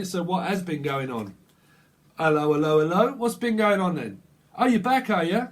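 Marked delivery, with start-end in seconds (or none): 2.2-3.1 mock greeting call. Calling out to returning person. 4.6-5.5 Oh, you're back, called out higher and louder in a teasing tone; a sarcastic welcome for someone who returned; mock sarcastic greeting. Reader teasing the returning person, loud and high.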